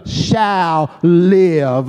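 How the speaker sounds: SHALL LIVE drawn out slowly; "shall live" slow and emphatic; stress on SHALL LIVE. Shown as a demonstration. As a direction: weigh down the words "shall live". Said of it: "placed the emphasis on the words".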